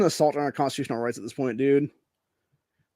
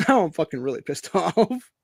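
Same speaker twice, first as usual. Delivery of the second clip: laughing. Real, not acted. Laughs at his own anger.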